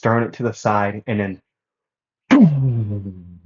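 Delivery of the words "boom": punchy vocal boom that trails away; imitated boom. Narrator acting out the fight's impact, imitated boom. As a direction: mimic an impact with a sudden boom.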